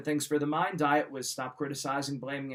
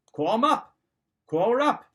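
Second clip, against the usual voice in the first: excited urging call; 5 semitones higher, 7 dB louder than usual. Acted. Urging listener to call friends.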